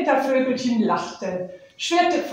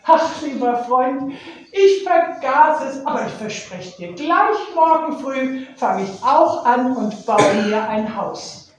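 pleading little bird; 3 semitones higher, 4 dB louder than usual. Acted. Nektarvogel verspricht zu bauen.

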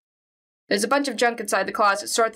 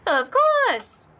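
higher, kindly Minnesotan neighbor; friendly neighbor lady, lightly accented; Honda-san voice; 9 semitones higher than usual. Acted. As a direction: play the sweet old neighbor.

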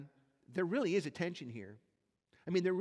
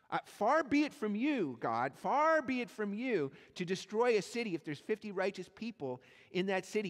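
raised, louder pleading with God; pushing past politeness, pleading out loud; bold pleading; 4 semitones higher, 5 dB louder than usual. Retold or imitated. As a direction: press God hard, voice lifted. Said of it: "He actually starts pestering God".

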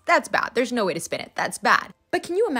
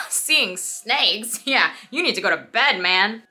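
offhand book Sirius; 8 dB louder, slower than usual. Retold or imitated. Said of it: "is like".

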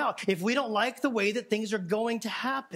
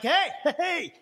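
raised, half-laughing gripe at Jesus; hammed-up indignant complaint, higher; mock irritated complaint; 4 semitones higher than usual. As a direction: playfully voice a ticked-off sister. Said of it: "being like".

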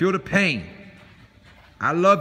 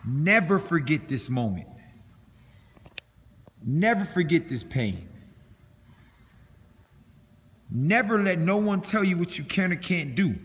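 earnest; 3 semitones lower, 3 dB quieter than usual. Real, not acted. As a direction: speak it quietly and earnestly, from the heart. Coach's quiet closing speech.

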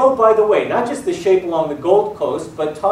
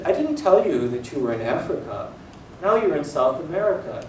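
quiet professor; 2 semitones lower, 5 dB quieter than usual. Retold or imitated. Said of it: "And he spoke very quietly".

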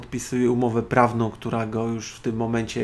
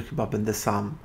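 lower, hushed mock-funereal delivery; sepulchral voice; 3 semitones lower, 5 dB quieter than usual. Woman solemnly warns him he'll be alone, mock sepulchral voice. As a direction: imitate a solemn graveside pronouncement, softly. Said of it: "grobowym głosem".

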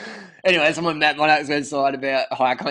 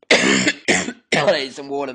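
sore throat; 5 dB louder, slower than usual. Acted. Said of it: "my throat's killing me".

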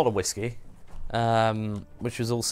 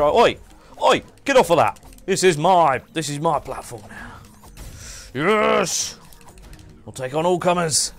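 loud mock Scottish claiming the platform; hammed-up Scottish challenger; Scottish accent; 6 semitones higher, 6 dB louder than usual. Streamer defends his game platform in a loud mock Scottish accent. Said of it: "don't break out your accent".

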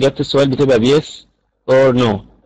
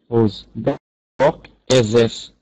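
very slow demo question; 3 dB quieter, much slower than usual. Shown as a demonstration. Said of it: "بأداة استفهام زي".

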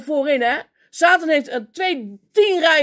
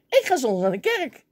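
full of bravado. Retold or imitated. Young man boldly tells colleagues his Sunday plan, full of bravado. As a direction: proudly announce it, chest out. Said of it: "Vol bravoer".

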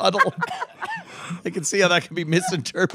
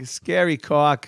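put-on Boston accent; slower than usual. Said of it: "you guys doing a Boston accent".

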